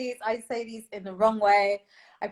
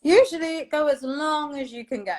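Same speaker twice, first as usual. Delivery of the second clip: laughing; 4 semitones higher, 5 dB louder than usual. Real, not acted.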